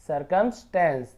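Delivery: "सरकमस्टेंस" slowly, piece by piece; broken-down word. Shown as a demonstration. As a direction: stretch out "सरकमस्टेंस" for learners. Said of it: "तोड़ तोड़ के पढ़ेंगे".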